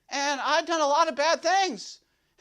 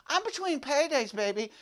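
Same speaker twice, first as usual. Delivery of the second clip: lower, softer crooning come-on; a low, soft sweet-talking pitch to the gal; smooth low pickup line; 4 semitones lower, 5 dB quieter than usual. Pretend. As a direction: purr it like a slick ladies' man. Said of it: "That's what I should have said".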